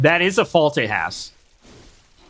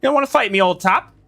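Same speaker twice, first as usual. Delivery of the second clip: teasing, higher-pitched British put-on; mock British; 4 semitones higher than usual. Streamer taunting a fleeing opponent in mock British. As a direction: taunt in a playful British accent. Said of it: "me doing the British".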